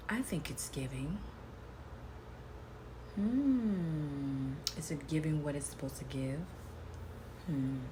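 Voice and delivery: sassy diva posing for camera; sassy drag queen. Acted. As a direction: strut it, all attitude.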